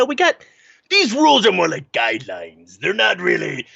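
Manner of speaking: pirate voice. Acted. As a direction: talk like a swaggering sea pirate. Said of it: "I just did a pirate voice".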